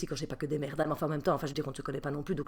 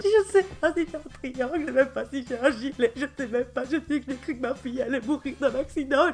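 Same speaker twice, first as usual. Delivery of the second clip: hysterical rant; 8 semitones higher, 7 dB louder than usual. Real, not acted. Hysterical recall of the crash.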